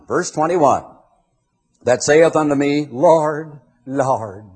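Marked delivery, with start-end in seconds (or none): 1.8-4.4 solemn drawn-out Lord, Lord; pious churchy "Lord"; religious intonation. Shown as a demonstration. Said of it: "I characterize it that way".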